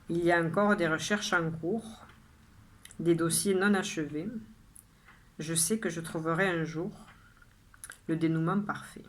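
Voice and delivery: measured poem reading, phrase by phrase with pauses; poem recitation. Acted. Poet shares today's poem with viewers, measured recitation. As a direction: recite your poem clearly, letting each line settle. Rereads the poem a second time.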